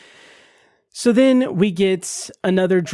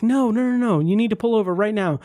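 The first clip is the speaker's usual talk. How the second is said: higher, pressing mock panic; urgent insisting; 5 semitones higher than usual. Man insisting Jess pull over now, higher urgent voice. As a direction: hurry her, he can't wait.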